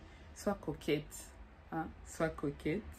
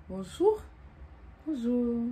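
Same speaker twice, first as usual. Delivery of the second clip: bright, louder, higher flirty hello; stylish bonjour; 5 semitones higher, 4 dB louder, slower than usual. Shown as a demonstration. Coach showing her friend an inviting hello, loud and bright. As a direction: greet him with charm and flair. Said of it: "Avec, euh, un certain style".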